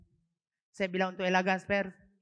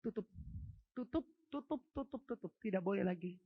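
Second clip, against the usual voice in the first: retold prayer command; 6 dB quieter than usual. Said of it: "Dan saya perkatakan".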